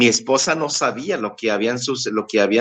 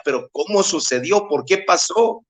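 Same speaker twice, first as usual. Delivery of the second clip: retold bewilderment; 4 semitones higher than usual. Father asking himself how it happened, mildly bewildered. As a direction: re-enact baffled questioning, pitch climbing at the end. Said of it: "yo estaba desconcertado".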